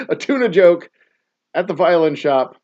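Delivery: high, loud words through laughter; laughing. Real, not acted. Dad retelling his pun at the violin shop, laughing loudly. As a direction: talk while cracking up. Cracking up at own joke.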